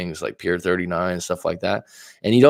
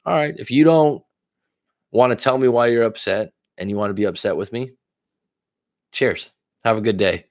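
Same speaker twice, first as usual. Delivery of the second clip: breezy brush-off; 2 semitones higher than usual. Retold or imitated. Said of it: "it was just kinda like".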